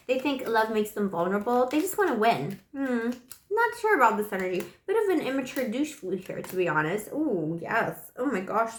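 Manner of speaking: ordinary talk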